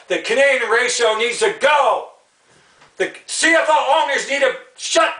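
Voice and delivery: fed up, yelling the demand; angry shout. Real, not acted. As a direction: shout it, hard fall on go. Angry rant against the league.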